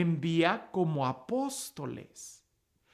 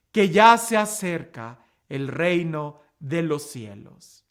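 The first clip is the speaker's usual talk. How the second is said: measured Gospel reading with deliberate pauses; proclamación del Evangelio; 4 dB louder than usual. A narrator's reading. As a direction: proclaim the scripture phrase by phrase. Reads the Gospel aloud. (lectura solemne del Evangelio)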